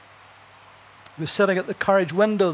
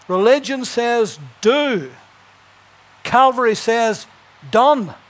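louder, slower, proclaiming; raised preaching voice; rising preacher's cry; 3 semitones higher, 5 dB louder, slower than usual. Real, not acted. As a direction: build it up like a pulpit call.

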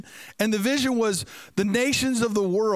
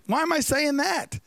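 higher, baffled question to himself; puzzled surprise; 6 semitones higher than usual. Retold or imitated. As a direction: raise it in disbelief at his own words. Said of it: "And then he says".

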